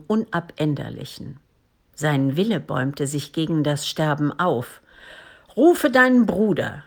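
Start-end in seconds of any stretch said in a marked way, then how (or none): 5.6-6.8 forced out with great effort; loud, effortful dying command; straining to speak. A narrator's reading. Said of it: "sprach er mit großer Anstrengung".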